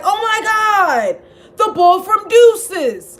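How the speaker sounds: slow, high, gushing fan voice; mock starstruck fan. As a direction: gush like a fan spotting a star. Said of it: "be like".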